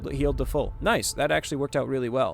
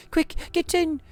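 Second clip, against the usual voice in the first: high, loud urgent call; urgent shout; 5 dB louder than usual. Acted. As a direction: hurry everyone inside. Character urges group to hide.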